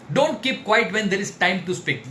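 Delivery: very slow, every word weighted; slow emphatic. Shown as a demonstration. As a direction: drive the maxim home slowly. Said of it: "slow emphatic maxim". (बहुत धीमे, ज़ोर देकर)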